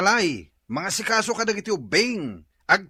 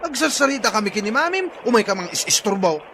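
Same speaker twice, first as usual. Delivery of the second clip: annoyed scolding; 4 semitones higher, 6 dB louder than usual. Acted. Father snaps at child interrupting.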